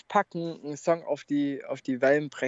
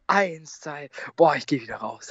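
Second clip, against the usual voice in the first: gasping in icy water; shivering, breathing fast; teeth chattering. Real, not acted. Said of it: "wie er schnell und tief das Atmen anfängt". (bibbernd und keuchend im kalten Wasser)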